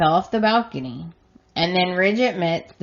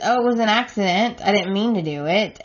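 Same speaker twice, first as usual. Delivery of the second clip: Quinn's excuse; 3 semitones higher, faster than usual. Retold or imitated. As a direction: toss it off like a flustered excuse.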